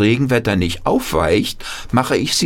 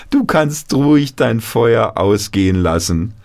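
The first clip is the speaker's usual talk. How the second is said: lightly voiced grandchild; 6 semitones higher than usual. Grandchildren telling Opa Paul to tell stories, light childlike voice. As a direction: give it as the eager little grandchild.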